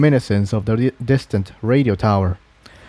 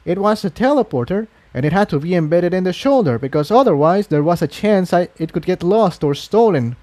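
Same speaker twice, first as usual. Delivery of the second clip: higher, apologetic mare voice; young mare; 6 semitones higher than usual. Acted. Mare apologising to the scarlet unicorn, sheepish. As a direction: own up sheepishly. Incendia explains.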